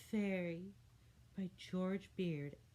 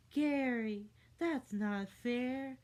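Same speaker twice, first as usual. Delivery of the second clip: whiny yell; 6 semitones higher, 6 dB louder, slower than usual. A narrator's reading. Kid yelling complaint.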